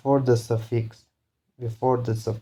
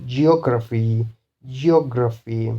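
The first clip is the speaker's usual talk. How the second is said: geography with the O of GEO stressed; stress on third-last syllable. Shown as a demonstration. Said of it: "the third last is the beginning one".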